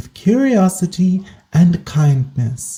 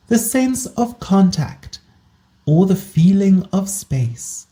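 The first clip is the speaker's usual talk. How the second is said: calm guided body scan, unhurried with long pauses; guided meditation. Acted. Host guiding listeners into a body scan, calm meditation voice. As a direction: ease the listener into position, leaving space between phrases.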